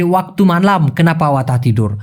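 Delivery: very slow Malay, word by word; slow Malay demo; slow alternative Malay. Shown as a demonstration. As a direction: show the other order slowly. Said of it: "অন্যভাবে বলতে চান".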